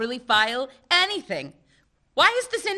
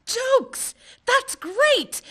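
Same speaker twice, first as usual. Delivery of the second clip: sarcastic; 12 semitones higher, much slower than usual. Acted. Mocking coworkers' joke.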